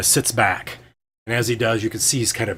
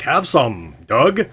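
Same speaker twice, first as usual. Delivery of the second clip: Fabler; 3 semitones higher, 5 dB louder, much slower than usual. Acted. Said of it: "He's like".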